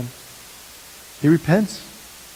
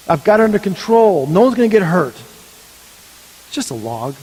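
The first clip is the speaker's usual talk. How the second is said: imitated listener's excuse. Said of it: "you may be sitting there thinking".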